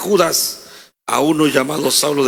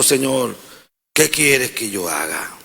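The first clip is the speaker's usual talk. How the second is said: lower, slow, hushed plea; trembling and fearful; 3 semitones lower, slower than usual. Acted. Saul fallen to the ground asks the Lord, mildly fearful. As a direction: ask it meekly, a touch of fear. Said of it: "Él temblando y temeroso dijo".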